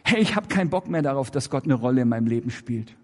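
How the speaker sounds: a fed-up believer blurting it out; blunt defiant statement. Shown as a demonstration. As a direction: say it straight out, fast and defiant. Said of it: "Sag es doch".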